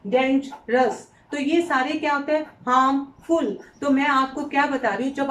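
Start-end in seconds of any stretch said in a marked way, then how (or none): 0.1-1.1 डेंजरस stretched out very slowly; slow syllable demo. Shown as a demonstration. Teacher sounding out syllables slowly for children. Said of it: "बोल के देखो". 2.4-3.6 हार्मफुल drawn out slowly; slow syllable demo. Shown as a demonstration. Teacher sounding out syllables slowly for children. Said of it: "बोल के देखो".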